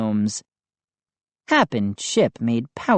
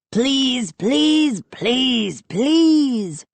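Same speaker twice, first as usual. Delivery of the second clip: chirpy begging; 10 semitones higher, much slower than usual. A narrator's reading. Gnomes begging.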